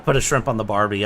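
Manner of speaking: half-hearted Aussie catchphrase; attempted Australian accent. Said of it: "I can't do an Aussie accent".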